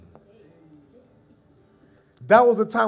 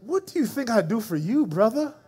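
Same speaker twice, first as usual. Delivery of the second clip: voice of God. Retold or imitated. Voice of God in spirit.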